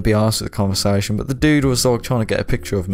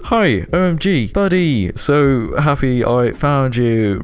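high, mock-sweet teen girl voice; mock young girl; 4 semitones higher, slower than usual. Man posing as an underage girl reads her messages, high girly voice. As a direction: gush it like a giddy fangirl. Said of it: "I'm trying to impersonate a young girl".

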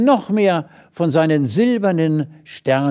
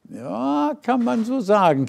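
much higher, giggly little squirrel voice; giggling squirrel; 10 semitones higher than usual. A narrator's reading. Squirrel teases the naive little star, high and giggly. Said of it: "kicherte das Eichhörnchen".

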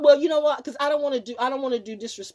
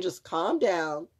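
a lightly voiced reassuring friend; calming words; 3 semitones lower than usual. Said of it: "he's saying".

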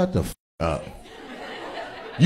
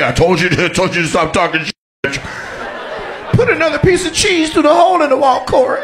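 imitating menacing Corey; 12 semitones higher than usual. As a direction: build from a muttered warning to a shrieking threat.

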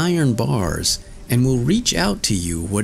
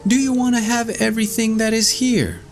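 shouting Tom Thumb; 14 semitones higher, faster than usual. A narrator's reading. Tom Thumb calling out in the pastor's room, high shout. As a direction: cry out with all his might. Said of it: "cried out with all his might".

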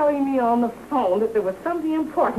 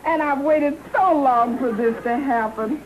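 choked up. Acted. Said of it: "I'm so choked up".

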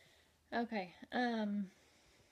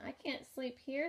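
tiny ladybug voice; 3 semitones higher than usual. Acted. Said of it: "said the lazy ladybug".

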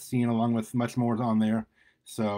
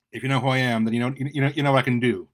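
louder call over the shoulder; 5 dB louder, faster than usual. Acted. Carl warning the stranger behind him, loud call. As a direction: call it out without turning. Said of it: "Carl called without turning around".

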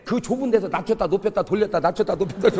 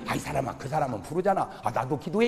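meek reply; 6 semitones lower, 6 dB quieter than usual. Acted. Pastor humbly answering his nagging wife, low and soft. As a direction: lower and softer, humble brush-off. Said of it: "그러면 목사님이".

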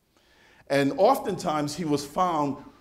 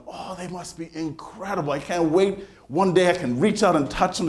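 put-on bright eager kid dreaming of clouds; young boy gazing up in awe; childlike wonder; 4 semitones higher than usual. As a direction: voice a kid longing to touch clouds. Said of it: "think to myself".

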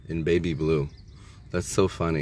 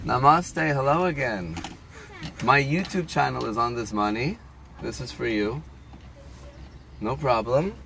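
higher, lilting greeting; friendly customer voice; 7 semitones higher than usual. Real, not acted. Customer handing money to the window worker, high friendly voice. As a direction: lift the voice sweetly, lines rising at the end.

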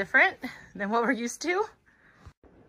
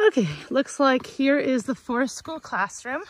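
out of breath; 3 semitones higher, 3 dB louder than usual. Real, not acted. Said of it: "Yes, I am out of breath".

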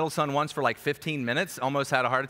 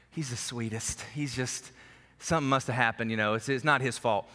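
a light imitation of a doting Southern mom, much softer at the start; Angie impression; 4 semitones lower, 4 dB quieter than usual. Southern mom defending her son, lightly imitated and softer. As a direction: gently play the mom who thinks her son can do no wrong. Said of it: "I do a good, you know, Angie".

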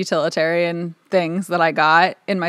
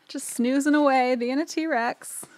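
cooing; 7 semitones higher, slower than usual. Acted. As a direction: keep cooing at the picture. Cooing over sleeping T-Rex.

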